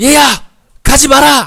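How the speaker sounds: put-on high, loud, urgent old-person voice.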